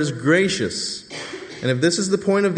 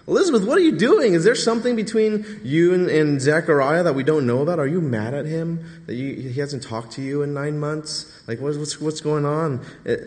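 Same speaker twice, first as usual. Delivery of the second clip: baffled neighbors. Retold or imitated. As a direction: squeal it like a scandalised gossip. Neighbors confront Elizabeth.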